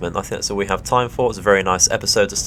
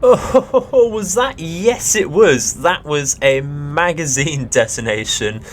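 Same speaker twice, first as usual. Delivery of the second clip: much higher and louder, gleeful disbelief at the blast; real excited surprise; 7 semitones higher, 3 dB louder, slower than usual. Real, not acted. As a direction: yelp with delight as the ship blows up. Ship explodes after torpedo hit.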